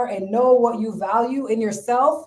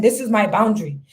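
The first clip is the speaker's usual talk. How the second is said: mock telling off. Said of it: "tell a man".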